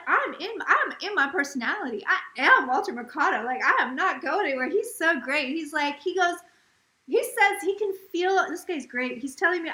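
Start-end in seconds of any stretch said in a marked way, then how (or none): 0.1-4.7 insistent. Retold or imitated. Spirit insists on keeping his personality.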